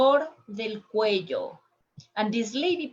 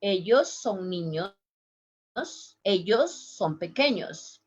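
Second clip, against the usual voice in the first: Caribbean Spanish accent. Shown as a demonstration. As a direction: demonstrate Caribbean Spanish, "eyos". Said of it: "do more like the Caribbean".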